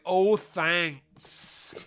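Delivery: a touch of mock sass; tossed-off sarcastic thanks; sassy thanks. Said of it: "Duke gets sassy".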